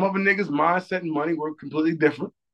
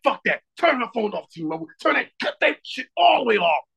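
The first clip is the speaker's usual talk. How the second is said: mock-angry command, building higher; retold pissed-off order; 4 semitones higher than usual. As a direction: order it cut off, pitch climbing at the end. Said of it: "I was a little pissed off".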